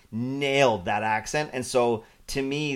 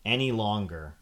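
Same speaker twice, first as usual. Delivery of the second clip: exasperated; 7 dB louder than usual. Retold or imitated. Exasperated complaint about drawn-out reveal.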